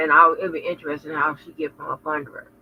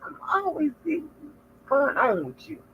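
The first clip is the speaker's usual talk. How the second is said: imitated friend; 10 semitones higher than usual. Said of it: "You're like".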